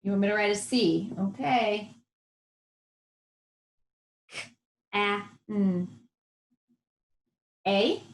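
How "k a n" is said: "K, A, N" said sound by sound, softly. Shown as a demonstration. Teacher sounding out can for young writers. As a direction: segment "K, A, N" slowly, each sound apart. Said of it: "say it slowly".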